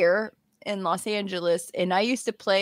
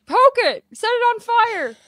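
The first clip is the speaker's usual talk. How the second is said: mock bratty kid; 12 semitones higher, 6 dB louder than usual. Mock cruel kid at spiders.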